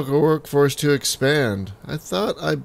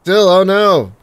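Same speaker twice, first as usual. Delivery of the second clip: dismayed cry; 6 semitones higher, 8 dB louder than usual. Real, not acted. Cash flow crisis in game.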